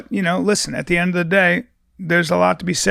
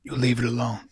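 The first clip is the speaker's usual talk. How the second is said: mock sage whisper; 4 semitones lower than usual. Mock guru advice, whispered.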